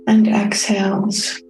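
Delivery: calm, unhurried meditation guide with long pauses; soothing, evenly paced meditation voice; guided meditation. Real, not acted. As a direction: guide listeners gently inward, leaving space between phrases. Leads a self-care meditation.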